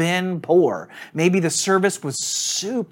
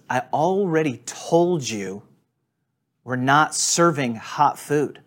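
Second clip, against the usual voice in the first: slow, curt and condescending; imitating a rude drive-thru worker, unhurried and dismissive; 2 semitones lower, slower than usual. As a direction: talk down to him slowly. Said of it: "stunning display of just rudeness".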